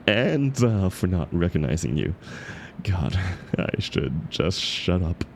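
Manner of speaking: earnest, still shaken sorry; sheepish apology. Acted. Apologizing to the author for the harsh review, sheepish. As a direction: apologize sincerely but flustered.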